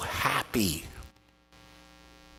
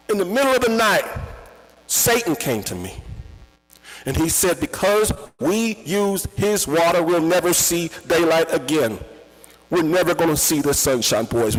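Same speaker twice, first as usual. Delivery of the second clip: higher and louder, panicked; terrified warning; 8 semitones higher, 6 dB louder than usual. Retold or imitated. Father telling his sons Satan came, loud and panicked. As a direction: warn your boys as if doom is coming.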